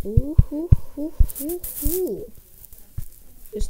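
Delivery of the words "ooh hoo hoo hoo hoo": loud, high gleeful hoots; gleeful loud hooting; excited hooting. Real, not acted. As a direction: hoot with delight.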